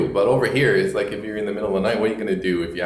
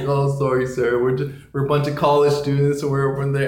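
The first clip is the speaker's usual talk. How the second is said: apologetic; 4 semitones higher than usual. Retold or imitated. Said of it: "I was so apologetic".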